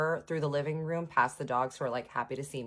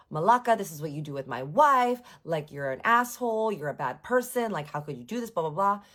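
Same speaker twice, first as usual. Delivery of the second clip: mild mock yell; imitated yelling; 4 dB louder than usual. Husband yells at rival with his wife, mock yelling. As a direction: rant like an outraged husband, half-hearted. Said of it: "starts yelling at this man in Greek".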